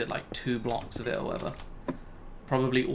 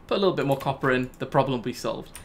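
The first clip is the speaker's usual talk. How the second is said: 1 quoting past self; 4 dB louder, faster than usual. Retold or imitated. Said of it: "'cause I thought".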